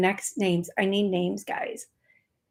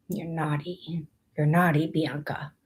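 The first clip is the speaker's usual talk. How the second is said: teasing naughty; 4 semitones lower, 5 dB quieter than usual. Pretend. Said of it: "a naughty, nice name".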